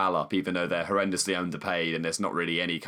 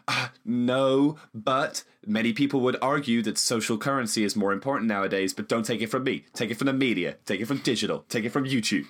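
fast patter. Retold or imitated. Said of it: "so fast and so well".

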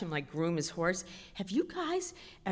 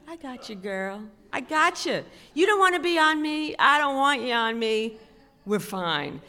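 knowing horse, rising louder and higher; sassy horse voice; 5 semitones higher, 6 dB louder than usual. Retold or imitated. Horse reassuring the nervous rider, sassy and emphatic. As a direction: voice the old horse's thoughts, building in volume. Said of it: "Like she was thinking".

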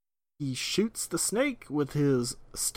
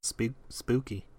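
slow, eerie spooky voice; 4 dB quieter than usual. Pretend. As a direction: draw it out like a ghost story. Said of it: "I don't know why I said that that way".

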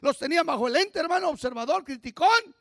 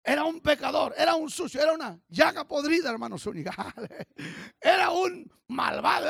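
testimony voice; 3 dB louder than usual. Retold or imitated. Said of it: "Usted debe poder decir".

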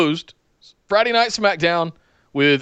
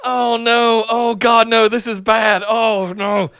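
higher, dismayed viewer's lament; mock dread; 5 semitones higher, slower than usual. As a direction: groan through it as a cringing viewer. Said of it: "you closed the show with".

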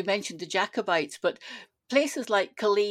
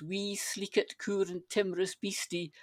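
softer, whispered imitation of a child reciting; whispered recitation; 7 dB quieter than usual. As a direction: breathe the lines out in a soft whisper. Granddaughter reciting, retold.

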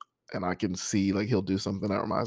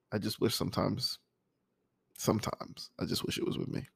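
soft wish fading into a whisper; quiet longing; 7 dB quieter than usual. Real, not acted. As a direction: let the wish fall away almost voiceless. Wishing ex-wife was still there.

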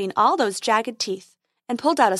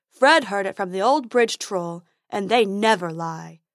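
troll Fred; 4 dB louder than usual. Acted. Troll Fred voiced in story.

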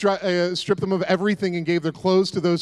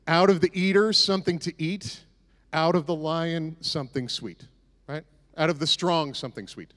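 riddle recital. Shown as a demonstration. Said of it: "So the riddle is this".

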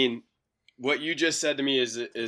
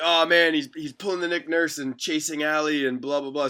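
higher and louder, a hammed-up French Canadian accent; mock French Canadian accent; 5 semitones higher, 5 dB louder than usual. Rival coach dismissing the defence, hammed-up French Canadian accent. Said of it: "That's my French Canadian accent".

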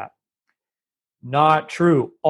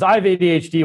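mock self-diagnoser; 4 semitones higher, 3 dB louder, faster than usual. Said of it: "someone says".

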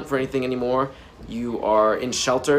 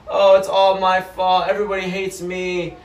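mock self-pity; 4 semitones higher than usual. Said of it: "You wanna have victim mentality".

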